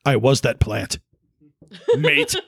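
bad Cockney put-on; hammy London geezer; English accent. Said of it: "that's my English accent right there".

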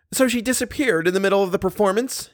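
can't believe what he just heard; incredulous repeat. A narrator's reading. Manager repeating the news, incredulous. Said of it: "he repeated".

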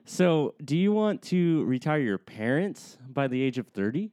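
slick salesman hype; mlm recruiter pitch. Pretend. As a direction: recruit them to your crew. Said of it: "give me a pitch on slippers".

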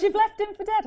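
high-pitched incredulous question through a laugh; retold disbelief. Mentor questioning her for abandoning the vendor, mock disbelief. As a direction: mimic a shocked mentor, voice leaping up.

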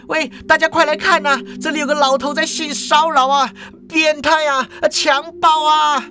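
high indignant rant, building to cries for witnesses; escalating high-pitched alarm; outraged accusation. Acted. Cashier accuses, calls out to onlookers.

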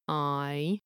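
I gliding slowly from "ah" to "ee"; bending vowel. Shown as a demonstration. Narrator showing a banana vowel, gliding I. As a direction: let I bend into "ee". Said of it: "It bends".

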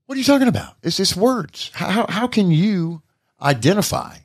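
high, mock-indignant teen protest; imitating his daughter. Dad mimicking his daughter arguing with Mom, high and indignant. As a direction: squeak it out like an offended teenager.

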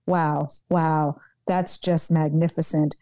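high, mock-exasperated husband voice; imitating husband. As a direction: tease her the way the husband did. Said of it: "And my husband says".

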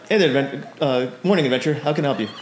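too chipper. Acted. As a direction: greet them a bit too cheerily for the morning. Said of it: "a little bit too chipper for you".

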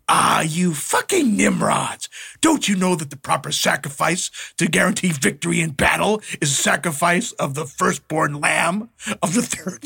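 imitating an exasperated expert, with total conviction; dead-certain rebuke. Devil correcting goth kids on sacrifice, dead-certain rebuke. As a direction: scold them as if it's established fact, slowing at the end. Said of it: "he said it completely one hundred percent".

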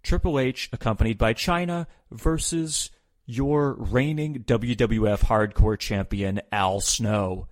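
slow, drawn-out ring announcer call; mock ring announcer.

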